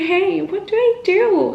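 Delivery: high, urgent retold panic; panicked plea. Scared runner calls ex about a dog, high panicked plea. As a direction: plead for help, pitch shooting up.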